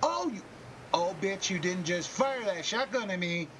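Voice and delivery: a tiny bear shocked at being shot; teddy bear Percy talking. Pretend. Percy the teddy bear scolding a shooter, high squeaky outrage. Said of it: "have him talking like".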